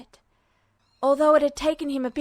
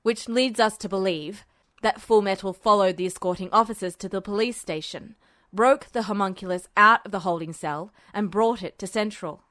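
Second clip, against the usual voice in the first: lower, gravelly-styled general; a hint of a menacing general; lower register; 4 semitones lower than usual. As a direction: drop into a low menacing register. Voices Tanaka.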